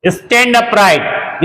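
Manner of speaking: stretched very slowly; very slow demo phrase; very slow model phrase. Shown as a demonstration. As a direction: draw each word out. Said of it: "आगे फिर देखते हैं".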